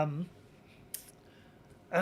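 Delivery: ordinary talk, nothing marked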